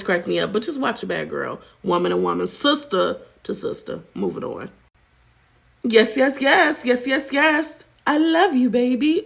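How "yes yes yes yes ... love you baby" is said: sing-song high robotic chant; mock AI streamer chirp; NPC streamer catchphrase. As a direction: parrot a TikTok NPC livestream. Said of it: "she making ten G's a month by".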